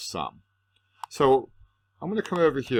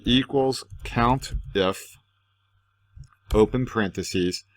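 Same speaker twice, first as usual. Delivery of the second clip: dictating; 2 semitones higher, slower than usual. Shown as a demonstration. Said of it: "So I'll say".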